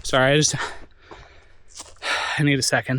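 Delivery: stopping to collect himself, choked up. Real, not acted. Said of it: "I didn't mean to get emotional".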